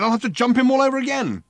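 high, loud outraged complaint; furious he missed it; raging. A narrator's reading. Ford raging on.

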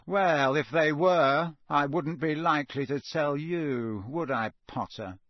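slow, smirking taunt; Malfoy smugly teasing Harry; smug sneer. Acted. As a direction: smirk through the reply.

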